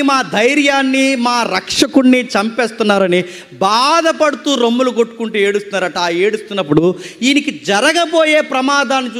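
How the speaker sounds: forceful, sustained sermon delivery; preaching. Acted. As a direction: preach it out to a congregation, drawing out key phrases. (ప్రసంగ శైలిలో గట్టిగా బోధిస్తూ)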